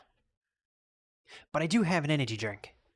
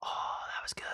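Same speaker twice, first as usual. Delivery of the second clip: whisper; 7 dB quieter than usual. Real, not acted. Whispering about a noise.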